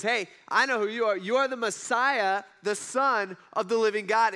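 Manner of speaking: loud, confident announcement; bold declaration. Retold or imitated. Peter speaks up to Jesus, loud and bold. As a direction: call it out boldly like Peter. Peter bursts out with his answer.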